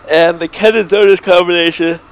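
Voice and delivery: talking through a yawn; words stretched by a yawn. Real, not acted. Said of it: "sorry, I yawned".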